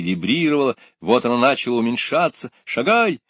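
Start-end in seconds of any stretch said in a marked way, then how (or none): 2.6-3.2 high, loud urgent commands; shouting. A narrator's reading. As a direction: shout each order, pitch way up. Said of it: "кричали сразу и доктор". (громкие высокие команды)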